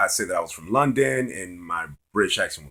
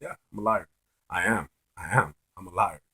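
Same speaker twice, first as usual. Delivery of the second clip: softer, lower, unbothered agreement; retold smiling admission; 3 semitones lower, 6 dB quieter than usual. Guy will not qualify himself to the friend, soft smiling admission. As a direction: keep calmly agreeing with a hint of a smile. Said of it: "I just kept saying that with a smile".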